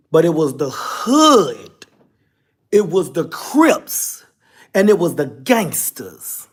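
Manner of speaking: slow, weighty stress on hood, Crips and gangsters; slow emphatic build. Real, not acted. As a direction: land each word like a testimony. Preaching gratitude to the hood.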